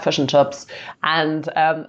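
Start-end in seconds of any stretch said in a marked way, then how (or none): 0.0-0.7 lightly slipped-in Kiwi vowels, "fush and chups"; mock Kiwi accent. Host teasing Kiwi guest, light mock Kiwi accent. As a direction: drop a hint of Kiwi accent on "fish and chips". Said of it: "take the piss out of Kiwis".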